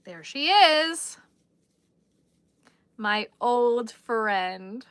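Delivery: mock greeting. Greeting something on stream, drawn out.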